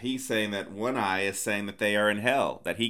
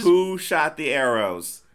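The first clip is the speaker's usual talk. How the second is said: slow, loud, high demand; loud bafflement; 5 semitones higher, 6 dB louder, slower than usual. Real, not acted. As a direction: demand an answer, word by word. Baffled exclamation about the film.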